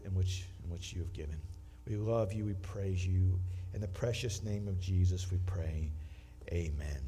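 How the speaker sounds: hushed earnest pastoral prayer. Real, not acted. Leads a prayer.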